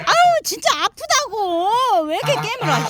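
high, loud irritated complaint; annoyed pain. Real, not acted. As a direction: scold the biting duck. Duck bites again. (물려서 짜증내며)

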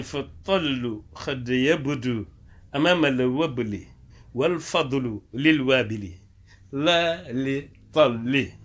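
slow, measured Arabic verse recital; verse recitation. Acted. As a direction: recite the verse slowly, syllable by syllable.

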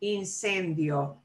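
incendio said slowly, io gliding; incendio, careful slow demo; slow model word. Shown as a demonstration. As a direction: stretch out incendio for learners. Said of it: "I and O like incendio".

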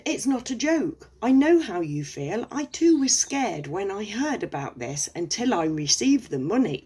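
high, earnest scammer voice; a hammed-up reassuring con man; mock scammer. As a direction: play the scammer pleading to be believed.

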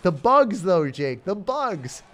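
high, whiny mock girlfriend fretting about bugs; girlfriend impression. Mocking his scared girlfriend, high whiny voice. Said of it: "She's like".

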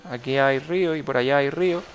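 usual speaking voice

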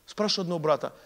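ordinary talk

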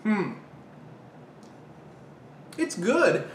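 talking with mouth full; mumbled between chews; chewing. Real, not acted. Seen 2: bites at -4, then holds slice, mouth closed as if chewing.

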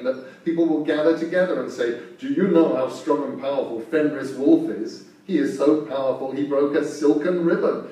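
loud, scoffing giant wolf; a proud beast mocking. Wolf mocks the gods.

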